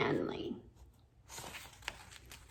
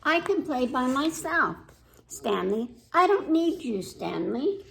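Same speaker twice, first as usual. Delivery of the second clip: a hint of a sulky girl, a bit louder; mildly huffy little girl talking to Stanley; lightly voiced little girl; 3 semitones higher, 3 dB louder than usual. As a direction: read it as a pouting child who won't play. Girl character speaking to Stanley.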